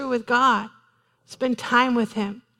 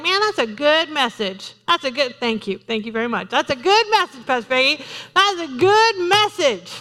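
mock churchgoer; 3 semitones higher than usual. Preacher mimicking a listener praising the message, gushing. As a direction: gush like a flattered listener. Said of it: "you're sitting here today like".

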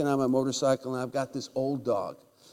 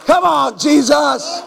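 high, loud cry of praise; high loud preacher's cry of praise; exultant shout; 13 semitones higher, 15 dB louder, slower than usual. Real, not acted. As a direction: shout it up to heaven.

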